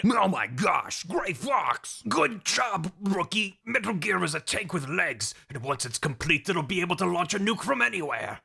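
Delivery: lightly voiced rescued agent; hammed-up comrade voice; Gray Fox character. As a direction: play a mock-heroic agent briefing the rookie. Voices Gray Fox found captive.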